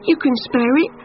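a cold insect asking a favour; pleading grasshopper. A narrator's reading.

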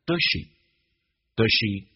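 does she said fast with weak does; does she弱读; reduced does she. Shown as a demonstration. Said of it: "Does跟she有一个弱化现象".

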